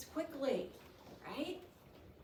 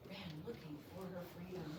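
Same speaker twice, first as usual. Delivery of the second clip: a little softer; 4 semitones lower, 10 dB quieter, faster than usual. Shown as a demonstration. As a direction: trail down softer. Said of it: "I read the third one a little softer".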